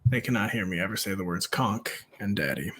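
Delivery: low, soft, confidential voice; half-whispered. Real, not acted. Father of four hiding words from children, half-whispered. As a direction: drop the volume and pitch, nearly whispering. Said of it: "I'm whispering it too".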